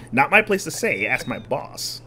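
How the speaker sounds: slow, sly con man voice; smooth-talking swindler. Acted. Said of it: "swindler voice".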